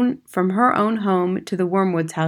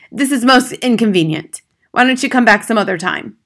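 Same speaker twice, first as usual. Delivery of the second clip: loud, higher-pitched irritated father; annoyed father; 4 semitones higher, 6 dB louder than usual. Acted. Father to teacher who interrupts his TV program, annoyed. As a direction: brush the visitor off loudly.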